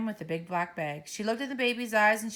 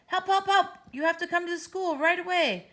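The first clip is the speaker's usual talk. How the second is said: high, louder panicky call for help; a boy begging mum to come; panicked child; 11 semitones higher, 5 dB louder than usual. Acted. Ben panicking on phone.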